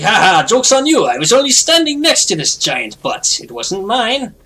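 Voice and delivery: high gloating cartoon spider; squeaky bug bragging about its butt.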